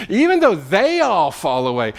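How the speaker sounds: slow, emphatic vow of loyalty; bold, courageous. Acted. Peter pledging loyalty to Jesus, bold and courageous. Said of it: "Peter is showing courage. This is a bold statement".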